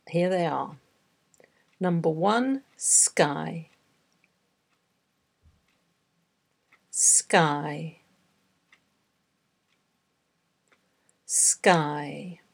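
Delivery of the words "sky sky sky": each word said slowly and separately; slow dictation. Shown as a demonstration. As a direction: read it out slowly for dictation, long pauses between. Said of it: "read ten words aloud slowly".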